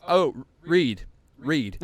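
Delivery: loud singsong taunt, mocking; taunting classmates. Classmates taunting the kid to read, loud mocking. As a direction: egg him on like a bully. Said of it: "they're like".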